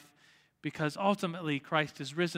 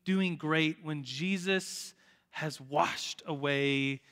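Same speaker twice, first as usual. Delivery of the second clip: very slow, weighted imitation of an earnest friend; serious, deep response; much slower than usual. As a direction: stretch each phrase, sinking lower at the end. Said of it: "providing a very serious, deep response".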